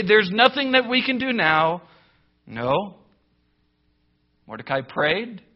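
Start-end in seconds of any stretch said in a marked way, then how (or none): 0.0-1.8 mock defeatist. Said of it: "He did not say".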